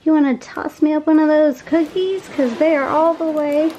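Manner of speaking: a small creature calling up to a friend; little dragling voice. Pretend. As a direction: beg a friend for a cookie. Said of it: "He's like".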